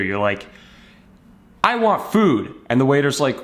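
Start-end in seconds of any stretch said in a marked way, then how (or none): 1.6-2.5 high, pitched-up mock yell. Hungry customer yelling at the waiter, high mock yell. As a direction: demand food like a cranky kid. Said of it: "you start yelling at the waiter".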